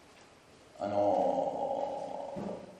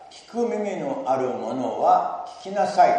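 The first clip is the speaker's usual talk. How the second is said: slow, louder proclaiming of Jesus' words; loud proclamation; 3 semitones higher, 5 dB louder, slower than usual. Acted. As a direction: declare it like a call to the crowd. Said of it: "大声で言われた".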